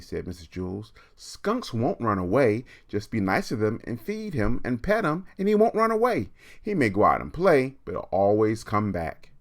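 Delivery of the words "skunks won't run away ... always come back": high, quick, sugary reassurance; high chirpy teacher reassuring a child; sweet teacher voice. Acted. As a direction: soothe the girl like a kindly teacher. Mrs Jewls reassures Kathy.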